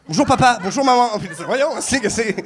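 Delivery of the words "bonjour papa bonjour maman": higher, louder mock French accent; imitated French accent. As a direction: put on a French accent greeting the parents. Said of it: "là, il y a un accent". (accent français imité, plus aigu)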